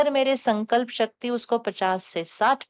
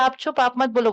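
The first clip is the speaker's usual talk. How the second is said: higher and louder, cutting the other off; firm hush; 3 semitones higher, 4 dB louder than usual. Retold or imitated. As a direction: shut the doubter up with force. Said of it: "कहते हैं".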